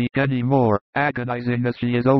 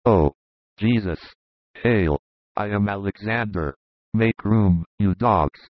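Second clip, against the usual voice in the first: angry Roman soldier; 3 semitones lower than usual. A narrator's reading. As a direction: lower voice, a soldier shoving through an insulting crowd. Roman soldier greets Jesus.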